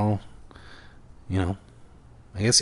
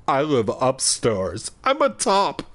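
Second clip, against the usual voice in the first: breaking into laughter. Real, not acted. Reader cracking up mid-line to listeners. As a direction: lose it mid-sentence.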